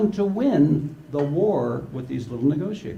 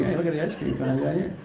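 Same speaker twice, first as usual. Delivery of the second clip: put-on gloating kid; faster than usual. Kid gloating over ice cream.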